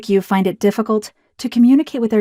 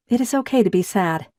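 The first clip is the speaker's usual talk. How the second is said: gentle comforting; 4 dB quieter than usual. Shown as a demonstration. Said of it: "how comforting these words sound".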